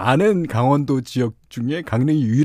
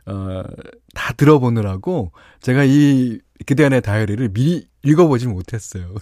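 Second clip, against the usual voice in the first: ordinary delivery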